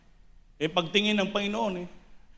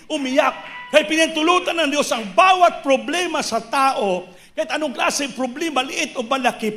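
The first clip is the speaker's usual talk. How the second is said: raised, emphatic preacher's exhortation; fiery preaching; 2 semitones higher than usual. Acted. Preacher urging the congregation to kneel, emphatic preaching. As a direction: drive each command home to the congregation.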